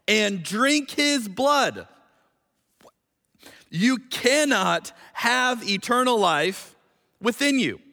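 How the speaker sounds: slow, solemn Bible reading with long pauses; scripture reading. Acted. Preacher reading Jesus's words to the church, slow and solemn. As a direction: let each phrase of the gospel land, slowly.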